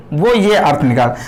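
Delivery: ordinary delivery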